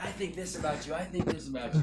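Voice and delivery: high laughing mimic of the ranting employee; laughing mimicry. Retelling the employee's rant, high and laughing. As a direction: giggle through a mocking replay. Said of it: "the other guy's like".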